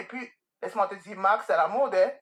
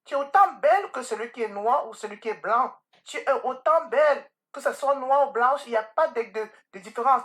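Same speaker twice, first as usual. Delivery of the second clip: higher-pitched, emphatic motherly affirmation; earnest retold reassurance; 5 semitones higher than usual. Mother telling her child it's their identity, earnest and emphatic. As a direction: drive each affirmation home, pitched up. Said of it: "J'ai dit".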